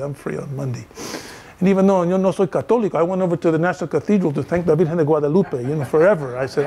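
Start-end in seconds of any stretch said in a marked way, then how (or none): 0.0-0.9 drops to a near-whisper repeat; softer echo. Retold or imitated. To the archaeologist accepting his invitation, a soft echo. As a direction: say it again under your breath, much softer.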